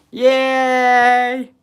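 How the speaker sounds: loud high cheer of joy; excited cheer. Real, not acted. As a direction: whoop it out. Celebrates winning first number.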